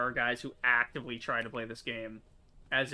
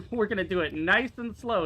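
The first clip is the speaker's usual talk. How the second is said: a little louder, talking himself calm; steady, coaxing himself through it; careful unhurried voice; 6 semitones higher, 5 dB louder than usual. Real, not acted. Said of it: "is what I say".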